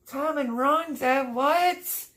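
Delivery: high, drawn-out, loud gasp of a name; can't believe the gift is real; stunned disbelief. Real, not acted. Reading the chat she learns she won a shirt, stunned disbelief.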